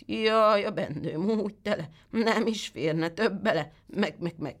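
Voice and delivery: a sly goat bleating its rhyme, pitched high. Acted. The goat fibs to the boy in a bleating goat voice. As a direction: stretch the rhyme slowly and end on a bleat.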